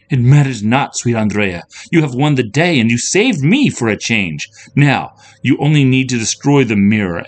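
high, loud, lofty declamation; grand storybook princess; heroic princess, triumphant. A narrator's reading. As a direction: proclaim it nobly to your friend. Princess declaims after victory.

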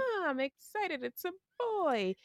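high, soft, put-on excitement; fake excitement. Co-host imitating a mother at her sonogram, faked excitement. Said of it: "She faked her sonogram, like".

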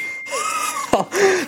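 high squealed laugh. Real, not acted. Quizmaster reacting to a contestant's meltdown, high laugh.

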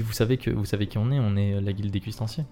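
low, hushed threat; library whisper. Acted. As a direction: murmur it close and soft. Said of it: "il te parle tout bas".

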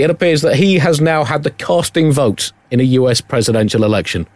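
usual speaking voice

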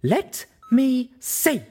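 high, loud, very slow demand; demanding mare, slow and loud. Acted. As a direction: order it, no argument. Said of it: "she demanded".

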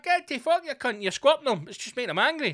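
high frantic shouting; panicked yell. Retold or imitated. Driver shouting at the monkey on the windscreen. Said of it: "You're like".

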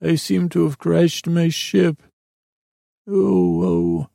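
put-on high-pitched voice of a crashed space boy; high, put-on little visitor voice; blubbering stranger's voice. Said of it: "in that same voice".

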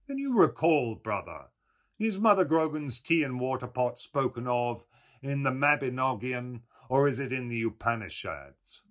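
a touch of high, mock puzzlement; fine puzzled voice. A narrator's reading. Mulligan turning to Stephen with a scholarly question, mildly puzzled. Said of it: "asked in a fine, puzzled voice".

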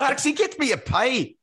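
high-pitched comic Scottish call; imitated Scottish accent. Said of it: "you're Scottish".

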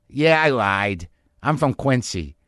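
lightly imitated Boston-area accent; a touch of Quincy, Massachusetts accent. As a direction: confess in a slow Quincy accent. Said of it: "but she had that accent".

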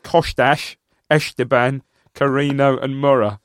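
light attempt at a Spanish accent. Shown as a demonstration. Cohost reads squad list on request, light Spanish accent. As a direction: read names in your best Spanish accent. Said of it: "best Spanish accent".

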